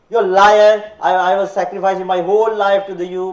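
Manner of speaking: put-on loud, angry scolding of a betrayed old woman. Granny scolding God in heaven, loud and angry. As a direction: tear into him, accusing. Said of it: "she was scolding".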